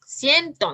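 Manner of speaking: "Ciento" in two clear beats; split into syllables. Shown as a demonstration. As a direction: say "Ciento" as cien, then to. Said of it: "tenemos ya la separación".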